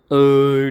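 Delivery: belch. A narrator's reading. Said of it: "ढेकर देत देत घरी येतो".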